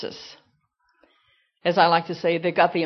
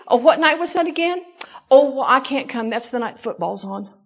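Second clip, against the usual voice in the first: mock excuse; 2 semitones higher than usual. Parodying churchgoer's excuses.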